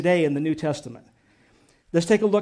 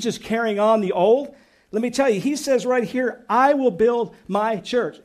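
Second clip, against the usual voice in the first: excited preaching; 2 semitones higher than usual. Real, not acted. Pastor stressing the church's future, fervent and emphatic. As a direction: let the excitement carry each word. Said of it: "And I'm getting excited".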